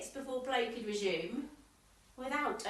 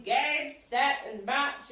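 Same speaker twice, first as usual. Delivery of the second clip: retold shout; 5 dB louder, much slower than usual. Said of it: "up there shouting".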